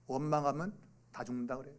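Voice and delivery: ordinary delivery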